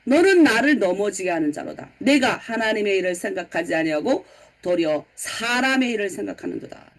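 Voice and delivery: low, measured scolding; retold stern reproach, sinking at the end; angry rebuke. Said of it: "갑자기 예수님 화를 내시면서".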